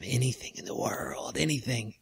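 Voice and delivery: soft unvoiced whisper of anything in the world. The monocle whispers its temptation to the adventurer. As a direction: breathe it like a secret. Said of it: "you hear him go".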